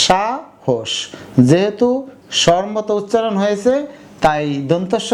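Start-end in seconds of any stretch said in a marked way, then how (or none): 0.1-0.9 "সাহস" split as sha, hosh; syllable by syllable. Shown as a demonstration. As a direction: break "সাহস" into two parts with sh. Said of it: "উচ্চারণ করলাম আমরা স এর মতো". (ভেঙে ভেঙে "সাহস")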